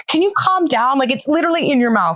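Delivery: high-pitched, exasperated plea, imitating herself; half-laughing plea to calm down. Mother pleading with her fiercely nursing baby, high and exasperated. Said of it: "I'm like".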